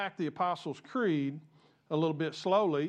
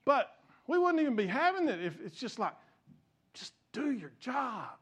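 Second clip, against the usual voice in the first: fired up; 3 semitones higher than usual. Real, not acted. Preacher telling bishops to do their job, fired up. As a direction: plead with them, leaning on each word. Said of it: "I get fired up".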